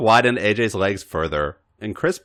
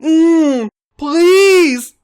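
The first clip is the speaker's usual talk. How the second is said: breathed; 9 dB louder, much slower than usual. A narrator's reading. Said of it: "A J breathed".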